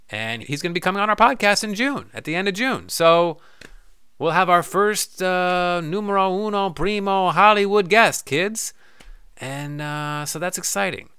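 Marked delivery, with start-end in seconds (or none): 2.9-8.7 excited hype. Real, not acted. Hyping first Hollywood guest.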